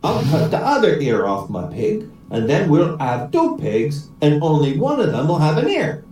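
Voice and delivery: even-toned Irish brogue; Irish accent. Acted. Paddy proposes cutting the other ear, Irish accent. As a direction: reason it out as an Irishman. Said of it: "try out my Irish accent".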